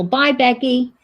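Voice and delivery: put-on a quick playful Italian accent sign-off; imitated Italian accent. Imitating the Instagram cook's Italian accent goodbye. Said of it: "she had a bit of an accent".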